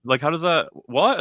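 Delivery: high, baffled huh; playful bewildered player; mock confusion. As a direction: sound totally lost. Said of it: "you're just sort of like".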